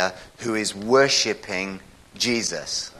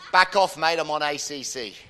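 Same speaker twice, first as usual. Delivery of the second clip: raised-pitch, wary New Zealander; New Zealand accent, higher then falling away; Kiwi accent; 5 semitones higher than usual. Acted. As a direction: warn someone off as a Kiwi bloke. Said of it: "The Kiwi says".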